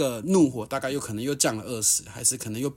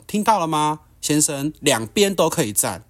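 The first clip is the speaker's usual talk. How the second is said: higher, louder cutting sarcasm; retold angry retort; 4 semitones higher, 5 dB louder than usual. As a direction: taunt him with a raised angry voice. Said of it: "我就很怒地看着他说".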